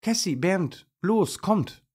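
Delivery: high, loud, thrilled shout; excited high-pitched cheer; joyful calling. A narrator's reading. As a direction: call out to friends, bursting with joy. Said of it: "ruft sie vor Freude".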